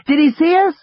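put-on high, loud child shouting over noise; shouting over machinery. A narrator's reading. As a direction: yell over the roar of water. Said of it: "She had to shout over the noise".

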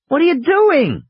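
put-on high, loud child's shout. A narrator's reading. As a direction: call out over the roaring water. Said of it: "Lex shouted".

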